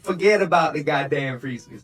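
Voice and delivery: put-on Italian accent. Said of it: "Sans is canonically Italian".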